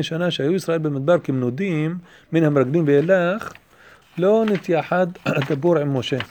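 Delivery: rapid recitation of a text; reading Hebrew commentary aloud. A narrator's reading. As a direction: read the Hebrew out briskly.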